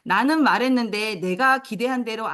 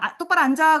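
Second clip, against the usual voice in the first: mock teacher command; 7 semitones higher, 7 dB louder than usual. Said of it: "아우, 이 정도는 초등학생인데".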